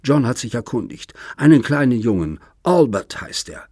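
bitter taunting. Acted. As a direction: needle him with every fact. Daughter taunts father about grandchild.

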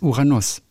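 Uranus ending like Nuss. Shown as a demonstration. Podcaster teaches the planet's name, ending like Nuss. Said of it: "wie Nuss hinten".

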